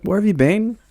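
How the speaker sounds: high mock staff squeal; staff greeting. Staff member squealing at a visitor in a high voice. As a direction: pitch it way up like a gushing worker. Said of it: "they were like".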